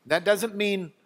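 ordinary talk, nothing marked

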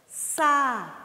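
Sapato clapped as sa-pa-to; syllable by syllable. Shown as a demonstration. Teacher counting syllables of sapato. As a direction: beat out Sapato in three claps. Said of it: "Vamos ver quantas sílabas, ó".

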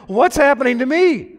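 a hint of a startled little bird; mock frightened bird. The bird being dipped, lightly panicked. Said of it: "And he's going".

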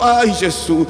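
stronger, drawn-out mock groan; retold worsening pain. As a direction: moan it harder as the ache grows. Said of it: "o dor pioró".

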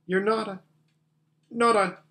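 high, halting, fearful question; acted shaky voice. Susan fears Aslan is a ghost, mildly shaky. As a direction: falter before the dreaded word. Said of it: "asked Susan in a shaky voice".

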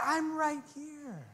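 soft, slow, quiet answer; a calm voice that is close by; gentle reply as God. Retold or imitated. God answers the anxious pray-er, softly.

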